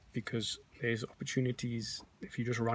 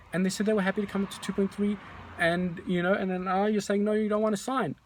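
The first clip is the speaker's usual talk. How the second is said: raised, pleading voice to a stalling client; exasperated appeal; 7 semitones higher than usual. Retold or imitated. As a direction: push hard, voice climbing in frustration. Still pleading with Mary.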